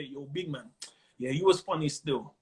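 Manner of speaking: low, reserved, no smile in it; unsmiling stush. Acted. London punter praising comedian, unsmiling and stush. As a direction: act a cool Londoner, praise held right back. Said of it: "this how I'm doing it, not smiling".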